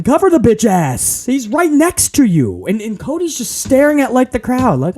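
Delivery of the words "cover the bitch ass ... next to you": mock yell, pitched up; retold yelling. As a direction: imitate your exasperated yelling at the screen. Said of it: "I'm literally yelling".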